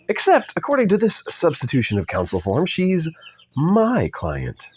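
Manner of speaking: put-on amateur British accent, rising and falling. Older man claiming his client, put-on British accent. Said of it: "spoke with a British accent".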